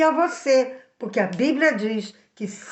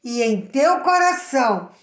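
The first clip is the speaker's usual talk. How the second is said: slow scripture reading. Shown as a demonstration. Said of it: "Diz assim".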